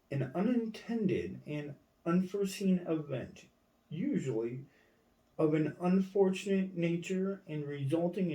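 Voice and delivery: lightly heightened dictionary-reading voice; formal reading. Acted. Reading a legal definition aloud, mildly declamatory. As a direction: read it out with swinging, emphatic intonation.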